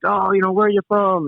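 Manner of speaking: a hint of a brash Guido shop owner asking; Guido pizza guy. Pizza owner asks the visitor: a light Guido voice. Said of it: "the ultimate Guido guy".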